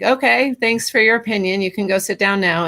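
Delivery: lightly acted dismissal, pitch starting high; polite brush-off. Writer answering the little voice in their head, polite brush-off. Acted reply to inner critic.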